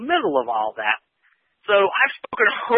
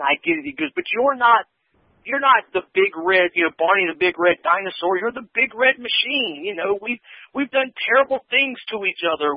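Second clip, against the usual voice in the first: higher-pitched, mildly frustrated retelling; a touch of exasperation, pleading with an old rival; frustrated plea; 4 semitones higher than usual. Retold or imitated. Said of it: "He seems very frustrated".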